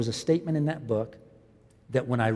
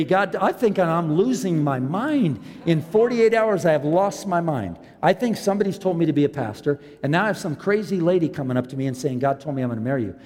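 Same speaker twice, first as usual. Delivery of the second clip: raised, loud, worked-up retelling of panic; mock panic; 4 semitones higher, 4 dB louder than usual. Pastor retelling his frantic prayer, worked-up mock panic. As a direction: act out losing your mind to God.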